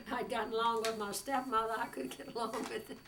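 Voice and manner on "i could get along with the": laughs through the words, pitch up; laughing. Real, not acted. Boasting she'd get along with anyone, laughing. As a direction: chuckle out the punchline.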